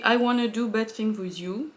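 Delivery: English with a French accent; accent anglais dégueulasse. Real, not acted. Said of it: "Désolée pour mon accent anglais dégueulasse". (anglais avec un accent français)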